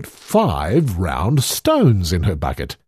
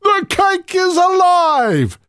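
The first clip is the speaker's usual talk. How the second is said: much higher, alarmed cry; frightened giant; 3 dB louder than usual. A narrator's reading. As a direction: cry out in panic. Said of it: "cried the giant".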